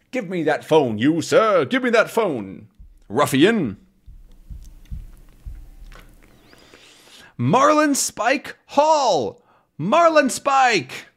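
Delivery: high, slow, strained cries while grabbing the phone; a butler fighting for the receiver; drawn-out pleading into the phone; struggling butler. Acted. Voicing the struggle over the phone.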